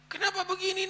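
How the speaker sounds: high, tearful cry to God. Acted. Wife weeping on seeing her ex-husband. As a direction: let it break into tears.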